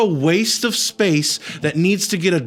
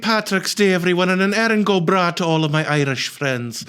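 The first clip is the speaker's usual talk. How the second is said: lilting little Irish leprechaun; chirpy leprechaun brogue. Pretend. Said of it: "You sound like a leprechaun".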